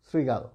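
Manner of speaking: শৃগাল said with sri at the start; dental S demo. Shown as a demonstration. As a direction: use s, not sh, to open শৃগাল. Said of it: "তালবস্যের উচ্চারণ দন্ত স হবে". (শৃগাল-এর শ দন্ত স-এর মতো উচ্চারণ)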